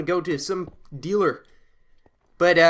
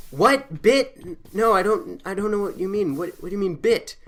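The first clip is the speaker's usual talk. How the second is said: mildly higher, bewildered retold voice; shocked confusion; 5 semitones higher than usual. Homeless man baffled by the odd question, confused. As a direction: play the baffled stranger. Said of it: "he's sort of shocked at this time".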